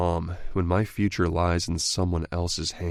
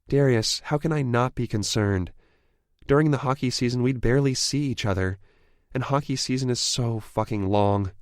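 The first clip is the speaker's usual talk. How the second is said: shrill; 6 semitones higher than usual. A narrator's reading. Evie protesting to Darius about hockey season, high and upset. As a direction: pitch it high and strained with worry. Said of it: "Her voice sounds shrill".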